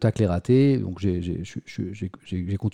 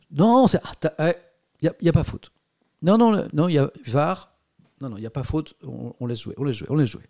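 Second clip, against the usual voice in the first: louder, higher playful referee call; light hammed-up referee ruling; mock referee; 3 semitones higher, 3 dB louder than usual. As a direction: wave off the foul like a joking ref. Plays referee after football joke.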